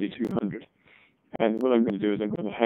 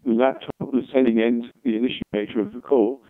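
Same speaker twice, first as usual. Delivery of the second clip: laptop mic. Real, not acted. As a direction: voice through the laptop call. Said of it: "So now I'm talking into the laptop".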